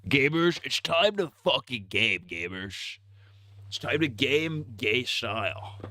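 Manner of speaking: rally the gamers like a hype man; hype call. Acted. Streamer hyping his chat to start gaming.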